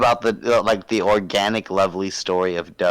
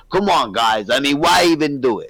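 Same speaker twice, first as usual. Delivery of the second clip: loosely imitating Donnie, mild; a half-hearted take on Donnie; Donnie impression. Friend imitating Donnie for the guys, lightly voiced. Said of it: "Doesn't sound like Don at all".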